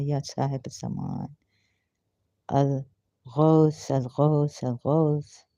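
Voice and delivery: drawn-out pleas, each repetition falling away; prayer invocation. Acted. Worshipper calls on the Imam for help, pleading invocation. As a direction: call out in devotion, stretching the vowels.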